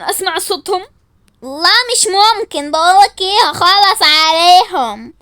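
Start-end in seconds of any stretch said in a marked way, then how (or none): 1.4-5.1 louder, slow menacing kidnapper threat; a hint of a gruff villain, dragging out the threat; disguised kidnapper voice. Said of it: "ردي بس غيري صوتك". (صوت خاطف مستعار، بطيء وعالي)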